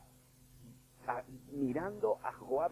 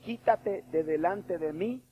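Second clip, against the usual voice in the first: loud, slow, high rebuke; stern rebuke; 7 semitones higher, 8 dB louder, much slower than usual. Acted. Jesus sternly rebuking Peter, loud and slow. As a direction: order him out of your sight.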